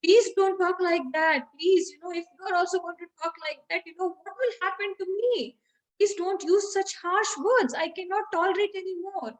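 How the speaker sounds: retold plea, lightly distressed; acted pleading. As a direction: beg gently as a hurt husband. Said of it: "with folded hands".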